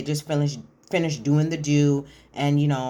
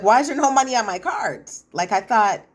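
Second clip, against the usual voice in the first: louder, higher mock outrage; retold indignant outburst; 5 semitones higher, 5 dB louder than usual. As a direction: demand an explanation as the wronged husband. Husband's card declined, confronts wife.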